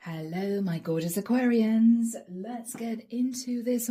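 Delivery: tired, raspy greeting. Real, not acted. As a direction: let the rasp of a worn voice show. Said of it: "Do forgive my raspy voice".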